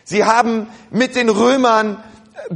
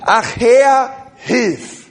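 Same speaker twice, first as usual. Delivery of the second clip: leading the call; 2 semitones higher, 4 dB louder, much slower than usual. Shown as a demonstration. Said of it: "Alle sagen".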